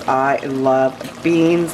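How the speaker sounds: I love beans, very slowly, with beans drawn long. Real, not acted. To viewers over the bean pot, drawn-out and slow. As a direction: savour every word as if tasting the beans. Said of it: "repeated declaration of love for beans".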